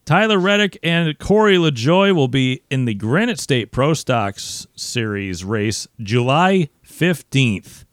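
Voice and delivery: loud, high, slow announcer hype; promo voice. Pretend. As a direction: announce it like a main event. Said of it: "I'm just doing my promo voice".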